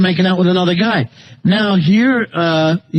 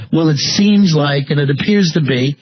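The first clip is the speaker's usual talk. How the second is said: mock wishy-washy; 3 semitones lower than usual. Host quoting the rumor-bringer back at them, in mock wishy-washy hedging. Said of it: "that's wishy-washy and it's rumor-mongering".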